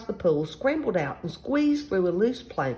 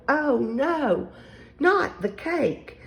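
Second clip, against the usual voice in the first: loud, high, drawn-out wail; 8 semitones higher, 4 dB louder, much slower than usual. A narrator's reading. Children see the birthday cake in danger, wailing. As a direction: wail it slowly in storybook dismay. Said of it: "all of the children wailed".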